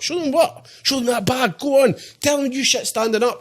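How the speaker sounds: high, laughing mock voice; high-pitched laughing imitation of teasing friends; mocking mates. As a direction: squeal it like teasing pals. Mimicking mates egging him on.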